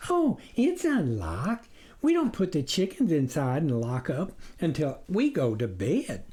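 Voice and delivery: lightly voiced trusting wife. Wife telling the stranger the coop is open, innocent.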